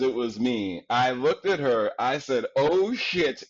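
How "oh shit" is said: giggly oh shit. Retold or imitated. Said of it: "and giggled like a small child".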